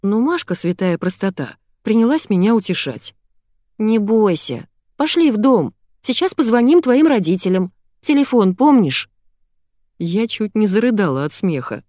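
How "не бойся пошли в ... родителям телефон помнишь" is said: put-on comforting girl. Masha soothes lost girl.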